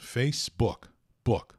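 Facebook, book with a short, loose oo; lax vowel. Shown as a demonstration. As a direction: mouth slack on book, no final vowel. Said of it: "A boca fica assim meio mole mesmo".

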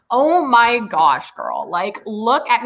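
put-on slow, drawn-out Valley girl gush. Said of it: "let me do my best Valley girl impression".

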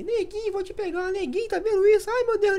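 play-fight taunt in a tiny high voice; squeaky little voice. Retold or imitated. Brothers play-fighting, taunting in a squeaky voice. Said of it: "A gente faz essas vozinhas assim".

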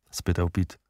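plain reading voice

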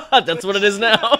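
laughing while talking; words bubbling with laughter. Real, not acted. Laughing at old strat joke.

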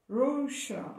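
Russia with the ss said as sh; model pronunciation. Shown as a demonstration. Teacher shows kids that the ss in Russia sounds like sh. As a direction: say Russia with a sh in the middle. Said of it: "esse S S ele tem um som de X".

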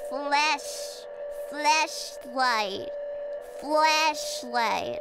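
"Flashlight" slow and deliberate, drawn-out first syllable; careful pronunciation attempt. Shown as a demonstration. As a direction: struggle to pronounce "Flashlight" distinctly, word by word. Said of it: "I can't say it differently".

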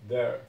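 "There," said loud as "dér"; loud model word. Shown as a demonstration. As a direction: call out "There," clearly. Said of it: "Mesma pronúncia". ("There," dito alto e claro)

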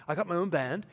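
put-on a touch of a Dutch accent. Guitarist turning down a new band, light Dutch accent. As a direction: lightly imitate a Dutch accent, brushing off an offer. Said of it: "that's my Dutch accent".

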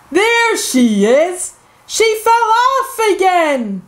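excited discovery. Acted. Olivia spotting Peppa.

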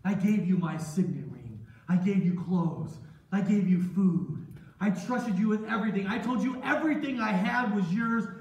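loud, mounting reproach; betrayed anger. Acted. Master lists his gifts to Joseph, betrayed and angry. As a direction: build force with each item.

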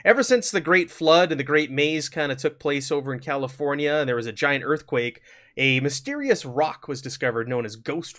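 steady storytelling voice setting the scene; game master narration. Acted. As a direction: open the adventure like a narrator.

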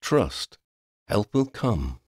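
calm, measured reassurance; reply soothingly, without urgency. A narrator's reading. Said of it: "It was like a soothing reply".

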